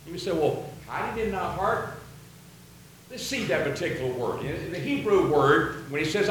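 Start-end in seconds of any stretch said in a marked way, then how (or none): 0.3-2.0 mildly puzzled query, rising at the end; questioning. Acted. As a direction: ask it softly, as if unsure. Imagined puzzled listener questions verse.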